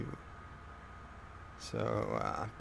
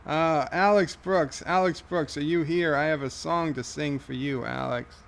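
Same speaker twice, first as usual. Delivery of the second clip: calling out; 3 semitones higher, 4 dB louder than usual. Acted. Calling out to absent viewer.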